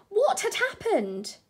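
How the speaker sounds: breathless hushed whisper; gasping whisper. A narrator's reading. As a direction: whisper it, startled and amazed. Waking up somewhere strange.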